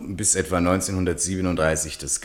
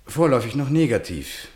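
Malraux voice; 8 semitones higher, 3 dB louder than usual. Acted. Malraux answers, high voice.

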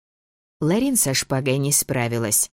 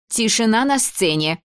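шикнув; 9 semitones higher than usual. Acted. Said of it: "шикнула Дебора".

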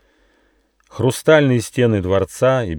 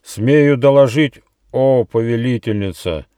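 lightly voiced fawning servant; servile report; 6 semitones higher, 5 dB louder than usual. A narrator's reading. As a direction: report with a bow to the queen. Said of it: "поклонившись, сообщил Ехидна".

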